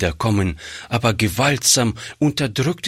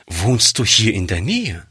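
ordinary delivery

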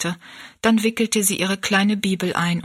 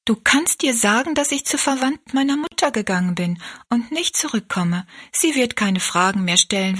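put-on young girl. Rosalie tells Betty Ann what to say, gently firm. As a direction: reassure your friend, a little brighter in pitch. Rosalie answers her worried friend.

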